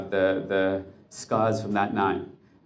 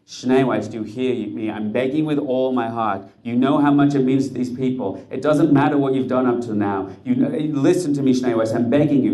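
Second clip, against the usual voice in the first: desperate begging; 2 semitones higher, 5 dB louder than usual. Acted. Rebbe begging the officer.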